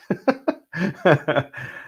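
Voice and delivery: real quick chuckling laugh; delighted chuckle. Real, not acted. Streamer reacting to a sip of brandy, real chuckle. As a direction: chuckle in disbelief at the taste.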